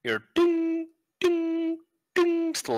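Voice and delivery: high sing-song hammer dings. Acted. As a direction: chime the hammer strikes high. GM imitates hammering sounds.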